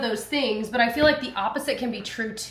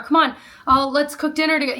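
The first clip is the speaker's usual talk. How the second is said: coaxing; 6 semitones higher, 4 dB louder than usual. Retold or imitated. Coaxing kids to play, retold.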